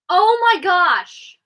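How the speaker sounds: slow, high, loud dismay; shocked gasp. Real, not acted. Vlogger learning favourite songs were cut, real shock.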